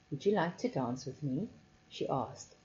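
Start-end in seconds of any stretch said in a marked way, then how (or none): 0.1-1.5 soft, low and breathy. Acted. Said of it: "in a low, breathy voice".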